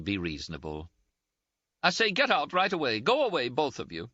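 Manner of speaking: high-pitched, indignant, close to tears; Ferguson's scolding. A narrator's reading. Ferguson voiced, sending them away.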